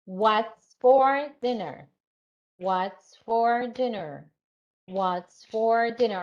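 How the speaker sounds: "What's for dinner" slow and even, falling on DINNER; slow teacher's drill with a falling DINNER; clapped falling intonation. Shown as a demonstration. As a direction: chant "what's, for, dinner" beat by beat, voice dropping at the end. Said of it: "intonation. So say, it's better to clap".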